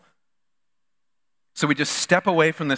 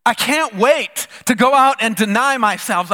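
mock eager; 5 semitones higher, 4 dB louder than usual. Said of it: "Who says".

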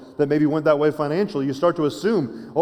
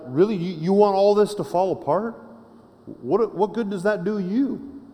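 higher-pitched, challenging questions; incredulous questioning; 4 semitones higher than usual. Acted. David asking God what good ruin does, incredulous questioning. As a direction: question God in raised pitch, drawing out the end. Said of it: "He's asking questions".

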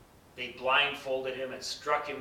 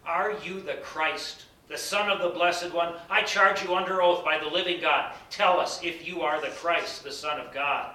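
louder, raised high priest demanding an answer; high priest's commanding demand; solemn charge; 4 semitones higher, 7 dB louder than usual. Acted. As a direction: charge him under oath, voice lifted. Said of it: "Again the high priest asked him".

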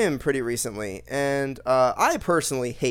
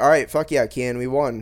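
excited; 4 dB louder than usual. Retold or imitated. Celebrating a win in game.

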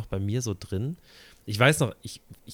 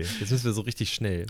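fast. Shown as a demonstration. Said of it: "Und jetzt ganz schnell".

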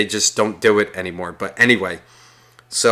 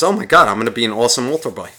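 higher-pitched boyish self-congratulation, retold; mock excited thought; 4 semitones higher than usual. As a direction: get carried away imagining an awesome future. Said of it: "all I kept thinking was".

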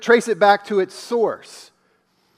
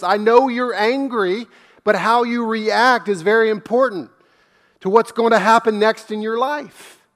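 higher, earnest voice of God pleading with Cain; God urging gently; 3 semitones higher than usual. Retold or imitated. Pastor voicing God urging angry Cain to do right, higher and earnest. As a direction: speak as a patient God giving Cain a second chance. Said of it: "God is saying".

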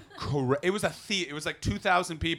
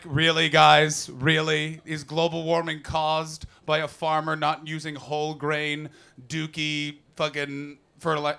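slow, louder incredulous complaint; exasperated; 5 dB louder, slower than usual. Retold or imitated. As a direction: drag it out in disbelief. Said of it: "I'm like".

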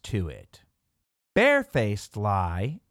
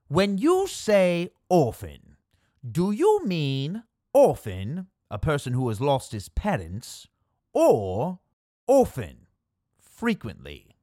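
Major General quote. Retold or imitated.

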